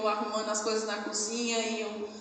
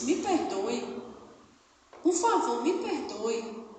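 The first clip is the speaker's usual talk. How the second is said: tender plea; slower than usual. Retold or imitated. Mother begs daughter's forgiveness.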